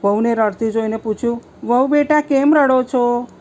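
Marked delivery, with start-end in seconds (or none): 1.6-3.3 higher, louder, slow worried question; louder concerned call to her daughter-in-law; concerned mother-in-law. Acted. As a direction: gently ask a crying girl what's wrong. Mother-in-law finds bride crying.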